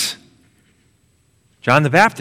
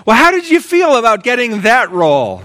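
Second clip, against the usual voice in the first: mom asking; 5 semitones higher than usual. Retold or imitated. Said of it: "she asks".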